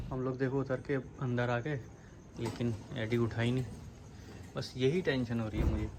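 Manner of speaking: hushed, soft voice so the dog can sleep; speaking quietly. Real, not acted. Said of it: "धीरे धीरे बोल रहे हैं सब". (सोते कुत्ते को न जगाने के लिए धीमी आवाज़)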